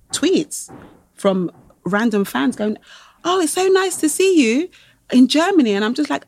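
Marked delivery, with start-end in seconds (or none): 3.2-5.7 high, sweetly excited greeting; mock fan enthusiasm; imitated gushing fan. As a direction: gush like a delighted fan. Voicing gushing fans' tweets.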